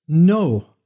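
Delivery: a sudden loud, high cry of "No!"; anguished cry. A narrator's reading. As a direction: shout it out in shock. Hears news of the blast.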